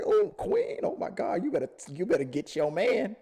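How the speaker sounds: high, excited urging at the TV; egging on the Queen. Retold or imitated. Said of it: "that's how I am when I watch that show".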